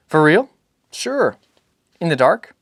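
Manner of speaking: a son suddenly delighted; eager child questions; excited boy. Acted.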